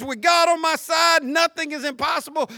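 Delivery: loud, high confident proclamation; emboldened preacher's declaration; bold faith. Acted. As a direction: declare it like a firm believer. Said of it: "the voice that says".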